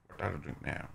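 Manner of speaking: a quick low mock Indian accent in English. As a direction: Indian accent, put on for a laugh, muffled and low. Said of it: "Hint aksanı". (alaycı Hint aksanıyla İngilizce)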